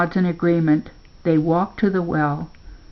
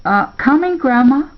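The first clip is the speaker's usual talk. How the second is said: higher, louder call back; 7 semitones higher, 5 dB louder than usual. A narrator's reading. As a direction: answer from across the yard. Answering Grandma's call.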